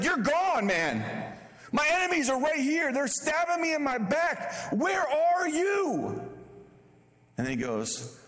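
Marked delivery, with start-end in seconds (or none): 0.0-6.2 high, pleading cry, dragged out slowly at the end; complaining psalmist. Retold or imitated. Psalmist crying to an absent God, high pleading complaint. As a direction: wail it at God like an abandoned friend. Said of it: "They're like".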